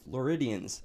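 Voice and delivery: "Floridians" with the R barely sounded; understated R in "Floridians"; soft R. Shown as a demonstration. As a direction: say "Floridians" without emphasizing the R. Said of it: "I don't emphasize the R".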